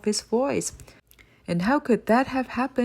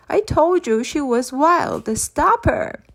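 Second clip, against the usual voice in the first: higher, louder building to a scream; rising furious yell ending in a scream; shout; 7 semitones higher, 4 dB louder, slower than usual. Acted. Creeper on the floor yelling at Father Christmas to stop her. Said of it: "he shouted".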